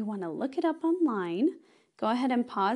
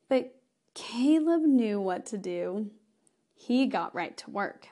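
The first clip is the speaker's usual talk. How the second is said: put-on reading to children. Reads story to children.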